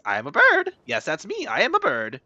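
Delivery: squeaky-high bird voice. Acted. Streamer showing off to viewers, high bird voice. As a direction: pipe up high like a cartoon bird. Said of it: "You like my bird voice?".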